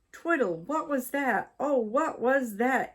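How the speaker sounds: high startled wife calling her husband; frightened cry. A narrator's reading. Wife frightened by the exploding rocket, high startled cry. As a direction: shriek it out in a fright. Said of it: "She gasped and screamed".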